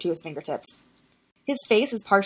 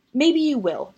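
raised, fierce challenge; 8 semitones higher, 4 dB louder, slower than usual. A narrator's reading. Remus defying Sirius's warning, fierce and higher. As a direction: throw it back at him fiercely. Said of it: "with a fierceness that almost surprises him".

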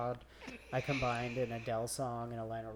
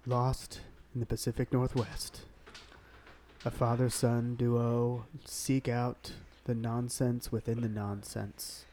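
trailer voice; slower than usual. Pretend. Movie trailer promo.

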